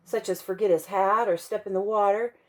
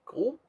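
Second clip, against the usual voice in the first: nervous gulp; 5 semitones higher, 5 dB quieter than usual. Acted. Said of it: "Punchinello swallowed hard".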